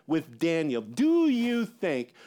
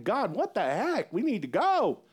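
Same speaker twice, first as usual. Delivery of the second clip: imitating an impatient plea, a bit higher; exasperated prayer; 5 semitones higher than usual. Daniel impatiently praying to God to go, mock exasperated. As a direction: pray it like a mock complaint. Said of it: "he's praying a prayer going".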